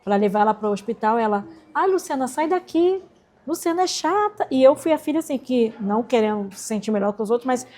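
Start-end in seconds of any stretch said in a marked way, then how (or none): 1.7-4.5 peevish mother. Retold or imitated. Mother voiced telling daughter off.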